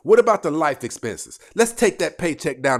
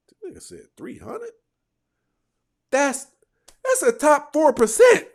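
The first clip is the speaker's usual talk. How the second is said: incredulous; 13 semitones higher, 5 dB louder than usual. Real, not acted. Incredulous reaction to salary claim.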